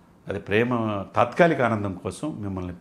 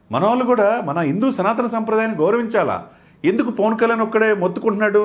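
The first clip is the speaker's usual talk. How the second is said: much higher and louder passionate declaring; fervent outcry; 9 semitones higher, 5 dB louder than usual. Real, not acted. Debate guest defending Hindu tradition, fervent and loud. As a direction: pound each phrase with zeal.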